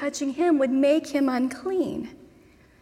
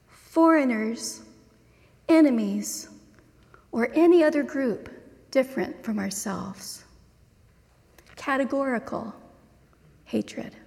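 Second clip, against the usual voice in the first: measured reading with long pauses between phrases; slow reading. Real, not acted. Preacher reading a dense Wendell Berry quote to listeners, slowly. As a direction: read a dense quotation deliberately, letting each phrase settle. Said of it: "I'm gonna read it slowly".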